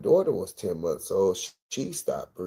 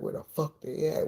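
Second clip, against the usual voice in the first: panicking; 9 semitones higher, 3 dB quieter than usual. Retold or imitated. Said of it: "I started panicking".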